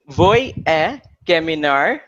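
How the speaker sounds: slow syllable by syllable "Voy a caminar"; slow careful repeat. Shown as a demonstration. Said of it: "and I'll just repeat it".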